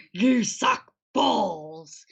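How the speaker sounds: put-on drawn-out crying sulky teen; mock teen sob. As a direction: wail it slowly like a miserable teen.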